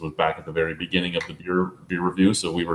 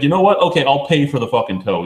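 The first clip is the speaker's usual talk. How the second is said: higher, louder, fed-up burst of giving in; exasperated outburst; 5 semitones higher, 4 dB louder than usual. Retold or imitated. Caller finally caving to the dealer, exasperated and louder. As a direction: snap out the surrender like you've had enough. Giving in after ten-minute argument.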